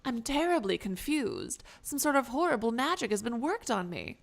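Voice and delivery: bewildered reindeer, a touch theatrical; lightly voiced confused reindeer. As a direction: plead your strange case as a lost reindeer. Plays confused transformed reindeer.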